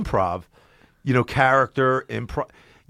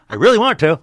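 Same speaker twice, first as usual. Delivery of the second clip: loud, higher, mock-strained restraint; through tight teeth; 6 semitones higher, 9 dB louder than usual. Ex-employee withholding the company's name, mock clenched-teeth grudge. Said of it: "why my teeth are so tight".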